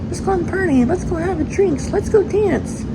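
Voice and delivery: put-on high, excited party girl; bubbly friend begging to go out. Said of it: "And her friend's always like".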